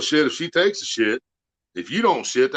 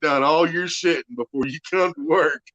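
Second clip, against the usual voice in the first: raised, high-pitched mock lecture; hammed-up telling-off, voice pitched up; imitated scolding; 6 semitones higher, 4 dB louder than usual. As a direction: read him the riot act as the fed-up woman. Acted scolding continues, laughing listener.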